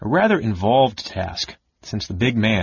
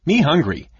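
higher, louder dim little creature; accusing gully dwarf; 7 semitones higher, 5 dB louder than usual. Acted. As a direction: complain like a hungry dwarf child. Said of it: "said the bundle to Tas accusingly".

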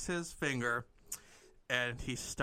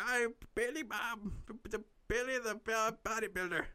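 acted character voice; 8 semitones higher than usual. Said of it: "And she goes".

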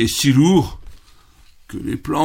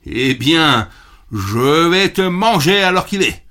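louder menacing troll; troll threat; 5 semitones higher, 5 dB louder than usual. Acted. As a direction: growl the threat at the little goat. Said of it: "dit le treuil".

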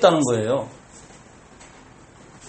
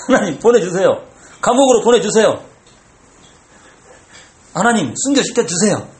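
earnest prayer; 3 semitones higher, 3 dB louder than usual. Shown as a demonstration. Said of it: "이렇게".

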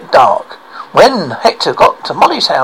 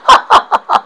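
belly laugh; 3 dB louder than usual. Acted. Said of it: "hearty belly laugh".

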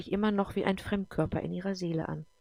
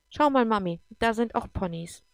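put-on higher and louder, eager little girl pointing out ponies; excited child; 4 semitones higher, 5 dB louder than usual. Little girl spots ponies and eagerly calls her mother. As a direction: call out to mum in delight.

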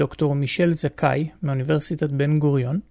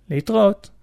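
pleased; 5 semitones higher than usual. Retold or imitated. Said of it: "אמרתי בהנאה".

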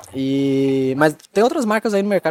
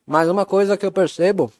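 talking with mouth full; words round a bite of food; 3 semitones higher than usual. Real, not acted. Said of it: "falando de boca cheia".

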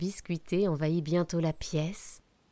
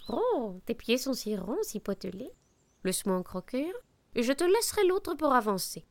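owl voice; 5 semitones higher than usual. Acted. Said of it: "dit le hibou".

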